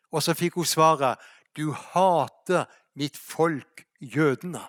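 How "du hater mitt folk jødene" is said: slow, hushed divine voice; voice from heaven. Acted. God telling Rania the hard truth, slow and hushed. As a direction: deliver the rebuke slowly and softly.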